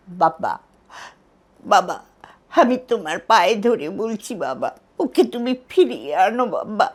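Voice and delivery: acted begging at a father's feet, words pushed out with effort; tearful pleading. Shown as a demonstration. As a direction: imitate the film heroine's halting, tearful plea. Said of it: "কাঁদতে কাঁদতে বাবার পায়ে পড়বে".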